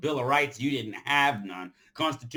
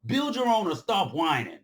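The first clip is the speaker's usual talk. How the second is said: much higher, louder rebuke; fierce shout; 9 semitones higher, 5 dB louder than usual. Real, not acted. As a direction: shout them down, demanding. Scolding the whiners.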